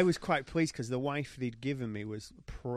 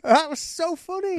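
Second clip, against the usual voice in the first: high, slow, still laughing; real amusement, barely recovered; tickled; 7 dB louder than usual. Real, not acted. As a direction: wheeze it out at the end of a laugh.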